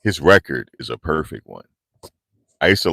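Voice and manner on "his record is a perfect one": ring announcer. Retold or imitated. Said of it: "I like when he say that".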